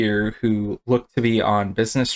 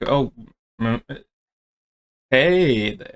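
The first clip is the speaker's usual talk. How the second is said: put-on drunk-sounding, fumbling and stumbling over words; 3 semitones higher than usual. Voicing a drunk character greeting someone: drunk, fumbling with words. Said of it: "so inebriated right now that he is fumbling with words".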